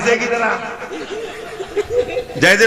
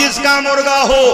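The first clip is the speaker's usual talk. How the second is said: called out; 2 semitones higher than usual. Retold or imitated. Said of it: "आवाज दी".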